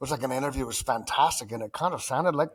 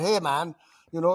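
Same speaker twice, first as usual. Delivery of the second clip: bad put-on American accent, pitched higher; 4 semitones higher than usual. Retelling a friend's phone call asking for a favor: imitating Chris, attempted American accent. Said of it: "in his voice".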